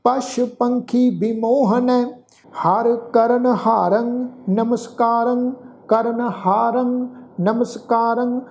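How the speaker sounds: slow, measured chanting of a sacred verse; scripture recitation. Acted. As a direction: recite each phrase slowly with long pauses. Teacher recites the shloka.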